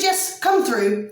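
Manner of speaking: slow, drawn-out imitation of the son; the son inviting her in, slowly drawn out; how he spoke. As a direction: spell each word out slowly, imitating him. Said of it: "That's how he spoke".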